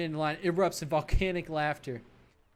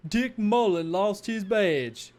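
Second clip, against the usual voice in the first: gleeful announcement; 4 semitones higher, 5 dB louder, slower than usual. Acted. Colleague announcing to Matt.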